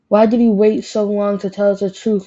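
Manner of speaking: a bit angry. Acted. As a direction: scold a friend lightly, a touch cross. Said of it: "He was a bit angry".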